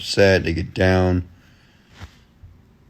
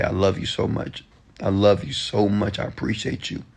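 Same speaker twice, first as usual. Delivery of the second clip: soft, trailing off quieter; tender self-affirmation; 5 dB quieter than usual. Shown as a demonstration. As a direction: say it softly, as private reassurance to yourself.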